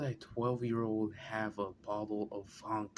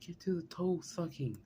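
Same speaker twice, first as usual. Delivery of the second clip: impatient demand; 7 semitones higher than usual. Real, not acted. Friend keeps demanding the juicy part.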